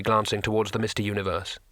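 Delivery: ordinary delivery, nothing marked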